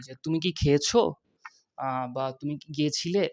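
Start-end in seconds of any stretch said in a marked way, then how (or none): 0.2-1.1 "খেয়েছো" lifted in a questioning rise; question intonation. Shown as a demonstration. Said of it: "প্রশ্ন করার সময় কীভাবে কথা বলি?". 2.3-3.3 "গিয়েছিলে" said with a questioning lilt; question intonation. Shown as a demonstration. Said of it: "প্রশ্ন করার সময় কীভাবে কথা বলি?".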